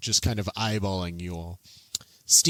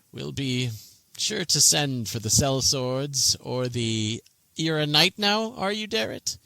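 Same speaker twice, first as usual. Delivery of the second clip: put-on young nobleman dismissing the sellswords; arrogant young noble; 4 semitones higher than usual. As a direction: look down your long nose at them. Bakaris speaks down his nose.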